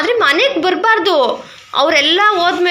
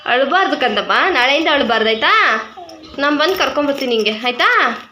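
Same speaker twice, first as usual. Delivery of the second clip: tender, reassuring parent; gentle soothing; 2 semitones lower than usual. Real, not acted. Mother consoling her child after a tearful school day, gently soothing. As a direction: comfort a little one who has been crying.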